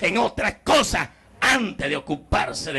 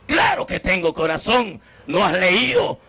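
indignant shout; 4 semitones higher than usual. Retold or imitated. God insisting to Wilmer he has a heart, shouting. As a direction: insist forcefully, almost shouting. God rebuking ignorant narrator.

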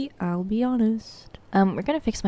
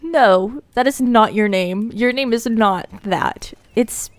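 firm self-correction; 5 dB louder than usual. Real, not acted. Correcting herself on the name.

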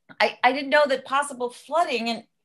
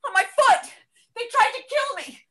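outraged rant; 10 semitones higher than usual. Acted. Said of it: "Can you keep your voice down?".

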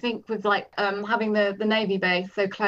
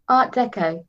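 Kitty; 4 semitones higher, 6 dB louder than usual. A narrator's reading. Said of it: "Kitty had said".

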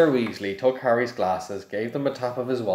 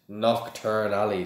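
grim. Acted. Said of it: "said Hagrid grimly".

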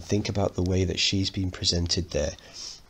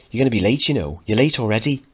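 hurrying him; 4 semitones higher, 4 dB louder, faster than usual. Acted. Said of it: "hustling Mickey to school".

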